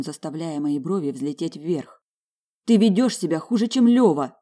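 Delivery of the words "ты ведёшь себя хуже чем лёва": angry outburst. Acted. Wife quarrels, stamps her foot.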